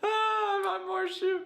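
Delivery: high, loud cartoonish squeal; high, loud mock character whine; squeaky character voice. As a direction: belt it out in a squeaky meme voice. Silly squeaky meme voice.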